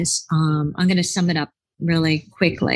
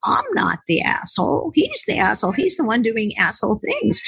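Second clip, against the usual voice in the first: indignant protest; 4 semitones higher than usual. Retold or imitated. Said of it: "I said".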